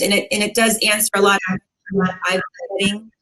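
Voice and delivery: echoey video call sound. Real, not acted. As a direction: voice echoing on a call. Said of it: "You sound like you're echoing a little bit".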